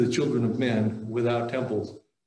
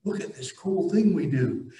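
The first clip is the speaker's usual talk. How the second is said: mock proud ancient Jews; 5 semitones higher than usual. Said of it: "they're like".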